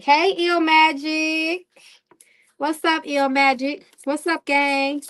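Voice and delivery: high, drawn-out happy hello to the chat; light up and sing out the greeting; excited greeting. Real, not acted.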